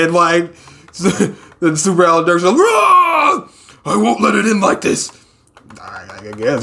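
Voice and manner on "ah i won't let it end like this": squeaky hammed-up battle wail; high-pitched cry. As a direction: scream it thin and high, no bass. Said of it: "get some bass in your voice".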